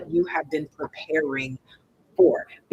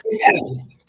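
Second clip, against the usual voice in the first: squeaked out much higher, joking; squeaky insistence; 3 dB louder than usual. Pretend. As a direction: insist in a high playful squeak. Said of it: "No, it's not".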